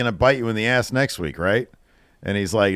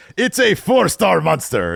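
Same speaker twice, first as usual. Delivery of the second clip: put-on vampire accent, higher pitch; 8 semitones higher, 4 dB louder than usual. Joking about a movie scene, acting out its creator: Dracula accent. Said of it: "a Dracula accent".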